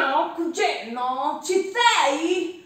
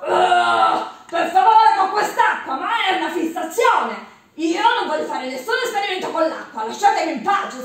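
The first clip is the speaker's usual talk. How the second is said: indignant refusal; 5 dB louder than usual. Acted. Giustino refuses water experiment.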